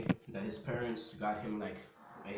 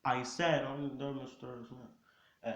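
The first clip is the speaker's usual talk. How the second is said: slow, higher, raised-voice repeat; louder; 5 semitones higher, 4 dB louder, slower than usual. Acted. Son told to say his confession loud, raised voice. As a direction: speak up, stretched out and higher.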